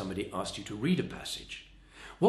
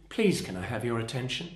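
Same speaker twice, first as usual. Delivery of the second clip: polite, unforceful request; ultra polite. Shown as a demonstration. Trainer shows the weaker appeal for attention, ultra polite. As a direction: ask courteously, with no power behind it. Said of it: "that's ultra polite. That's not very powerful".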